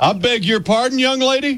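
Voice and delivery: stern scolding tone. Retelling how a girl's dad kept his kids in line; mock-stern dad reprimand. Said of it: "kept us in line with a stern".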